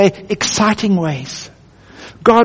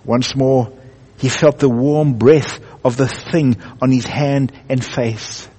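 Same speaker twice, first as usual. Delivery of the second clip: unhurried storybook narration; a touch of drama in the storytelling; 5 semitones lower than usual. A narrator's reading. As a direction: read it like a bedtime story to children. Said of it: "in my best storytelling voice".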